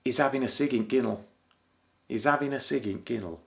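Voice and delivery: quick clipped Yorkshire, dropping the "the"; fast Yorkshire gossip at school; fast Yorkshire schoolkid. Shown as a demonstration. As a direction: rattle it off like a Leeds schoolkid. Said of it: "This is what we used to say in school".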